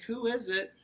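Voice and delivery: moderately high storybook granny; Grandma calling. A narrator's reading. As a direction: call out lightly as a grandma. Grandma calls from inside.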